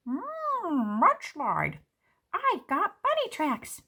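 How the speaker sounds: high, savoring seed voice; happy little seed. Acted. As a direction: relish the dirt like ice cream. Seeds name favorite dirt flavors.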